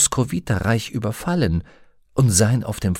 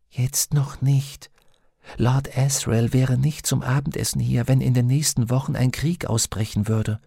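higher-pitched companion, gently reasoning; a higher, measured character voice; lightly voiced Pantaleimon, reasoning daemon; 4 semitones higher than usual. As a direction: lightly voice a daemon weighing things up.

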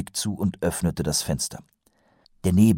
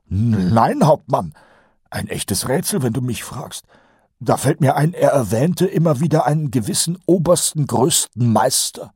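higher, nasal-free eager sergeant voice; Kolon's voice; 7 semitones higher, 3 dB louder than usual. A narrator's reading. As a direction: play the chatty old sergeant, pitched up. Colon voiced by narrator. (höher gesprochener Feldwebel Kolon)

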